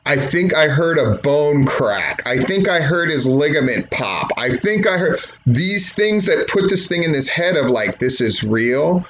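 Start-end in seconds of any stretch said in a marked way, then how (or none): 0.0-5.2 selling it. Shown as a demonstration. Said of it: "Sell what is happening".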